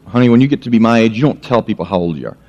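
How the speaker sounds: a hint of an old woman, quick and dismissive; low, hurried granny voice; grandma.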